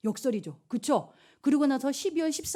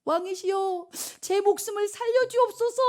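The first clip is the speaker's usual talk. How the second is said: very high-pitched, theatrical begging; mock tearful plea; 9 semitones higher than usual. Esther begs the king for her life, acted tearful plea. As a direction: plead for your life, hammed up. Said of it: "막 엉엉 울고 난리가 납니다".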